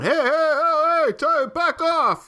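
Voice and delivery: high, drawn-out mock yell; slow, high-pitched imitation shout; Rocky yelling. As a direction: imitate a trainer calling off a sparring match. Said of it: "you got Rocky yelling".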